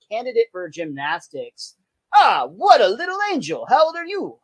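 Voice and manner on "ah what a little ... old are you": high, exaggerated German accent coach; thick German accent. Gymnastics coach fawning over Lisa in a German accent. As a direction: coo it in a hammed-up German accent. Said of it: "in a very, like, thick accent".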